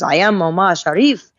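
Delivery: lightly imitated suave celebrity reply; a hint of the film star's own voice; Omar Sharif. Celebrity diner correcting his waitress, lightly imitated. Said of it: "they think you're Omar Sharif".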